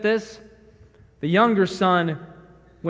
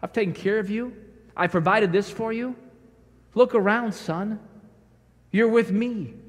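loving father; 2 semitones higher than usual. Acted. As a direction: comfort him gently, son to father. Father reassuring the elder son.

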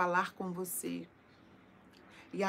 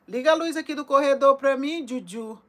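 loud call down the hallway; 6 semitones higher, 13 dB louder than usual. Real, not acted. Calling loudly to Juju for the corridor light. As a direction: shout the request to another room.

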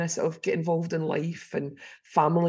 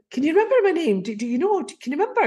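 pressing question; 8 semitones higher, 5 dB louder, much faster than usual. Retold or imitated. Stranger presses her for name.

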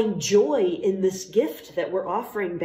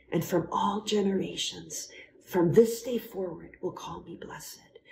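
hushed prayerful recital. Acted.

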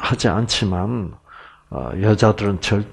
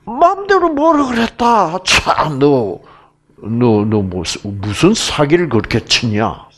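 mock scoffing man; 3 semitones higher than usual. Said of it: "남자는".

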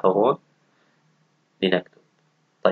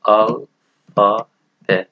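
ألفا drawn out slowly for students to repeat; slow modelling; 4 dB louder, much slower than usual. Shown as a demonstration. Teacher modelling ألفا ب slowly for the class. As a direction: stretch out ألفا slowly, falling at the end. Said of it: "أبجدية".

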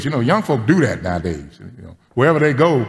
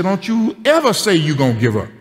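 put-on wag a finger like a sassy five-year-old; little girl, hand on hip, telling grandpa off; bossy little girl; 6 semitones higher than usual.

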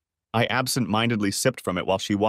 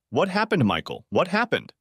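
worried, higher-pitched repeated question; growing concern; 7 semitones higher than usual. A narrator's reading. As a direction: press for an answer with mounting worry. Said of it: "she asked with growing concern".

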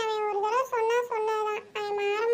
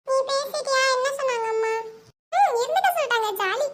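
higher, louder, happy; excited; 3 semitones higher, 4 dB louder than usual. Acted. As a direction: bounce with joy. Girl excited about sleepover. (உற்சாகமாக)

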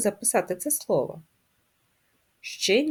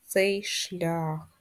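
whisper; 4 dB quieter than usual. Real, not acted. Teacher guiding tracing exercise.

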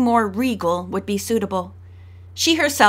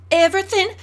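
higher, insistent peevish cry; peevish exclamation; 8 semitones higher, 4 dB louder than usual. A narrator's reading. Fretful daughter to her family about her engagement, peevish exclamation. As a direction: insist on it like a spoiled bride-to-be. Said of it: "she exclaimed".

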